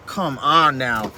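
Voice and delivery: exasperated. Real, not acted. Exasperated dismissal of critics.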